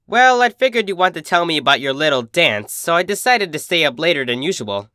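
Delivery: a hint of brash big sister, friendly; cheerful, teasing sporty pony; lightly voiced tomboy. Narrator voices Rainbow Dash.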